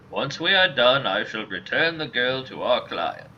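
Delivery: lightly voiced old man; a hint of a formal elderly mercenary. Old mercenary explaining the job, lightly put-on old man voice.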